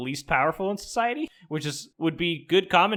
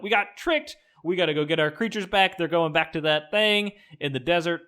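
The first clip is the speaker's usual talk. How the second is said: urgent rally; 5 semitones higher than usual. Retold or imitated. Tribe rallying after the trick.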